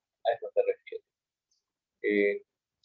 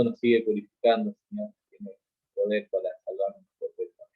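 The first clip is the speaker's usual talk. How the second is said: communion prayer. Acted. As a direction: pray over the bread in front of the congregation.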